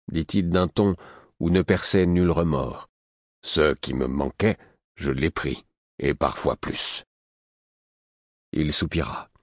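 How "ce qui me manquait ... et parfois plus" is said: unhurried and low, without remorse; old hermit voice. Acted. The host continues.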